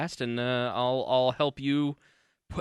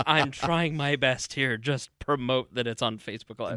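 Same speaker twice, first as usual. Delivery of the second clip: genuine exasperation. Retold or imitated. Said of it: "genuine exasperation".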